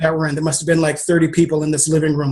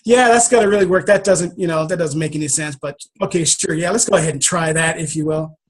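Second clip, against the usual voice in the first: inner skeptic; 2 semitones lower than usual. Retold or imitated. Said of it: "my inner skeptic going off".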